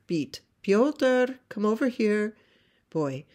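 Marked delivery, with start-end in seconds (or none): 0.6-2.4 high, loud maternal call. Acted. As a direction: summon a child from across the tracks. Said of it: "calls to her little boy".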